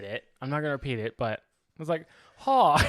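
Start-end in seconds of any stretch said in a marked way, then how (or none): 2.4-2.8 put-on Asian accent. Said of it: "I do the accent".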